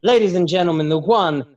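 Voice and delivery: loud, high emcee call; showy ringmaster build to a big finish; Prima's stage announcement. Acted. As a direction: announce the act, drawing out and lifting the name. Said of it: "Prima makes the announcement".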